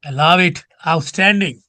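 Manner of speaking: enthusiastic praise, lifting on the repeat; delighted praise. Real, not acted. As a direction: cheer the student's fine answer. Teacher praises student's correct answer.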